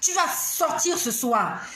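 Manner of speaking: slow, drawn-out fed-up declaration; reenacted weary ultimatum; retold inner cry. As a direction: drag out the exasperated order. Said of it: "j'ai crié comme ça dans mon cœur".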